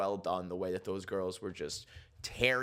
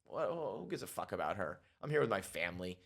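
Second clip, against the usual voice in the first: mock dismissive; 3 semitones lower, 5 dB quieter than usual. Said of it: "she's like".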